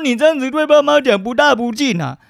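high, prim imitation of a scolder; mock scolding relative. Mocking someone who said he was disrespectful to parents, high and prim. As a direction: mimic a preachy elder lecturing on filial respect. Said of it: "他说".

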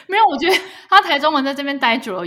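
high, loud laughing excuse. Real, not acted. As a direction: make a lame excuse while laughing.

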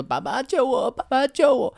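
mock plea for help from Dad, pitch climbing; half-hearted imitation of a kidnapped son; child crying out in the background, lightly acted; retold child hostage plea. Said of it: "后面还说爸爸救我".

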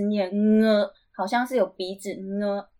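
"N" as "nge", the ng hummed before the vowel; nasal NG. Shown as a demonstration. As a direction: start "N" in the nose like ng. (“N”念成带鼻音的“ng”)

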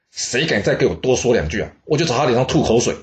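hammed-up spitting threat from the queen mother; mock threat. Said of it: "而且她还放话". (半开玩笑地放狠话，语速加快)

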